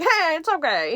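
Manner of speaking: light cartoon-dad voice; Peter Griffin voice. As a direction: toss off a quick Peter Griffin. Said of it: "did the Peter Griffin voice".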